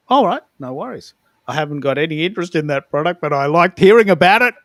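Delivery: playful, delighted reply to the pitch; amused mock reply. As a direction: answer brightly, rising toward a burst of laughter. Acts reply, building into laughter.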